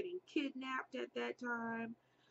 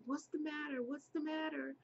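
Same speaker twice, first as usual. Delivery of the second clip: lightly voiced concerned lady, higher; a hint of a worried stranger woman; mild higher concerned woman; lady asking; 6 semitones higher than usual.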